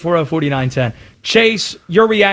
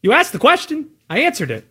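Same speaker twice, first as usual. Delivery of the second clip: condescending; 6 semitones higher than usual. Real, not acted. Co-host answering a challenge in an argument, condescending. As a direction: talk down to your opponent. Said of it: "in this condescending way".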